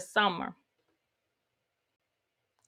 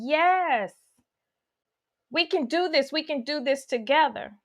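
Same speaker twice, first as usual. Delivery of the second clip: tender loving parent; 3 semitones higher than usual. Acted.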